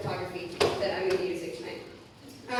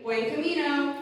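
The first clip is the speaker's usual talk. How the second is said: higher, lively call to the class; kindergarten teacher voice; 5 semitones higher than usual. Shown as a demonstration. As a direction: lead the class call and response. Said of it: "that's my, um, kindergarten voice".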